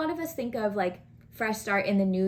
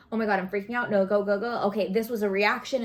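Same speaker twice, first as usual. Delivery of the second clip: mock freak-out; 4 dB louder, faster than usual.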